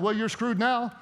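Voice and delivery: God chuckling at your last resort, half laughing; a hint of a laughing God mocking the last resort. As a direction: play God amused and teasing, laughs breaking in. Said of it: "imagine God up in heaven going".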